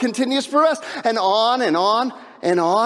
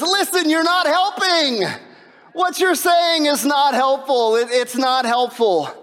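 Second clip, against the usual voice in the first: fed-up Job; 5 semitones higher than usual. Retold or imitated. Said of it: "finally he says".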